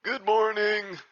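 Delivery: high, loud put-on elder voice; old character's greeting. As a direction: call out a morning greeting as an old-timer.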